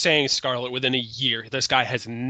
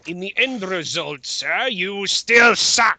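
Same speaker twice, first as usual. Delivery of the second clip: mock verdict; 5 semitones higher, 4 dB louder, slower than usual.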